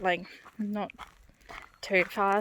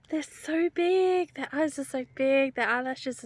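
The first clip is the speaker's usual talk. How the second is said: awed; 4 semitones higher than usual. Real, not acted. Awed after seeing cows.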